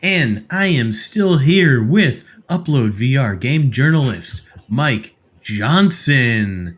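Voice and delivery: drawn-out, sing-song show opening; announcer intro. Acted. Host welcoming listeners back with the guest, drawn-out announcer delivery. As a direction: roll out the guest's name slowly like an announcer.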